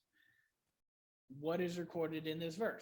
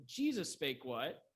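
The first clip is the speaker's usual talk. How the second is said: JESUS emphasized as the changing word; stress on JESUS. Shown as a demonstration. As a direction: put the weight on Jesus. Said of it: "The emphasis tells you what's going to change".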